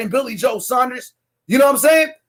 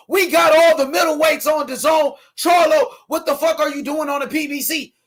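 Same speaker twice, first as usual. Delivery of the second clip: mock Eddie Hearn boast; 3 semitones higher than usual. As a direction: shout it like a smug promoter bragging. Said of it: "Eddie Hearn said".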